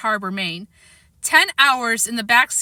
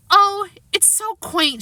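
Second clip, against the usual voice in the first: delighted gush; 10 semitones higher, slower than usual. Acted. Mom delighted by town.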